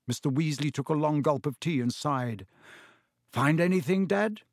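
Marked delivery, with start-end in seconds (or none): 3.3-4.4 eager rising question to Dad. Acted. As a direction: ask Dad keenly, a bit higher. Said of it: "said Fred eagerly".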